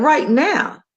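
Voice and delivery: retold startled reply; incredulous echo. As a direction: question it back in disbelief. Retelling her startled reply to receptionist.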